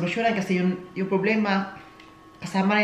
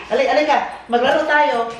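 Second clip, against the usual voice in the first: calling the dog; 4 semitones higher, 4 dB louder than usual. Real, not acted.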